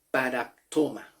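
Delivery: "paraptoma" said as a Greek word; Greek pronunciation. Shown as a demonstration. Teacher shows how Greek falta is pronounced, demonstrating. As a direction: pronounce "paraptoma" carefully for learners. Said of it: "en el griego se pronuncia".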